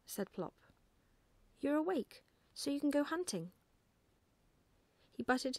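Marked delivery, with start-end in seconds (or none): 1.6-3.5 put-on higher, louder, insistent child's voice; excited young owlet, pitched up; eager owlet. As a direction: pester Dad to get moving. Owlet urging father to get up.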